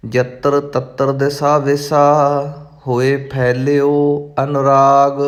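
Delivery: measured, careful recitation of sacred verse; intoned verse for learners; scripture recitation. Acted. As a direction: recite each phrase distinctly, holding the endings.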